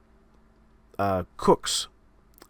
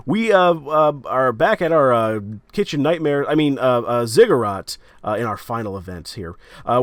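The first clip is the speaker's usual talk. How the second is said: fighting game announcer; 4 dB louder than usual. Acted. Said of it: "here you hear this announcer voice".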